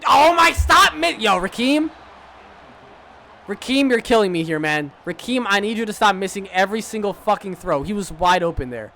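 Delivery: high, loud exasperation at the quarterback; frustrated yell. Real, not acted. Gamer yelling at his quarterback Rakeem, loud. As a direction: vent at Rakeem's misses. Quarterback keeps missing throws.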